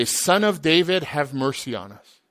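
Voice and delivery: loud pleading cry to Jesus; crying out for mercy. Retold or imitated. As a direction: call out Son of David, begging. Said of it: "notice they say".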